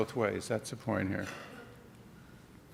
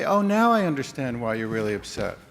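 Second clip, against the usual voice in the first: gentle understanding. Shown as a demonstration. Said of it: "in a really gentle, non-confrontational way".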